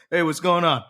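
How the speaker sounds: laughing imitation of a casual hello; laughing mock greeting. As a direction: greet the ear again, cracking up. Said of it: "as the cop is, like, screaming".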